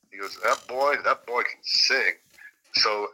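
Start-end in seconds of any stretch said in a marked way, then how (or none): 0.4-2.1 lightly imitated Southern admiration; a hint of Southern good old boy; Clayton's Southern accent. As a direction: marvel in a put-on Southern accent, stretching the end. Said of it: "super Southern accent".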